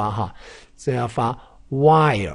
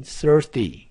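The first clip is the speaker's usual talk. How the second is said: whispered model word; 4 semitones higher than usual. Shown as a demonstration. Teacher whispering thirsty to show the er sound. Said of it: "发儿的音".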